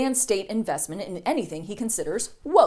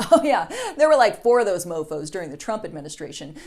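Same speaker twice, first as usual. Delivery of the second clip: casual laughing admission; 4 semitones lower, 4 dB louder than usual. Acted. Press secretary laughing casually.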